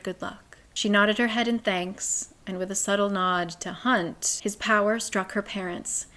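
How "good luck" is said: a soft unvoiced whisper of good luck. Nesta wishing Bryce luck at the gate, whispered. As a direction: breathe it with no voice at all. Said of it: "And Nesta whispered".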